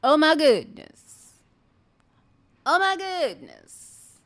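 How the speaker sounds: meeting the war goddess Sekhmet, awestruck; overwhelmed awe. Retold or imitated. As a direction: cry it out overwhelmed. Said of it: "I said".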